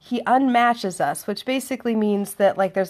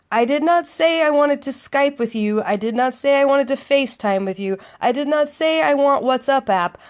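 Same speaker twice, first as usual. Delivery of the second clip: louder, higher, tough-talking tirade; sardonic gangster rant; 4 semitones higher, 3 dB louder than usual. Retold or imitated. Woman venting in her head at her date, sardonic gangster rant. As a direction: tell him off like a gangster, spitting it out. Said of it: "I'm thinking in my head".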